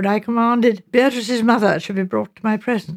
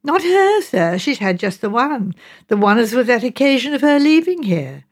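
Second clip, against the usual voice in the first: earnest mother; 3 semitones higher than usual. Acted. Mrs Baker explains about her daughter's letter, earnest. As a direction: answer firmly but with deference.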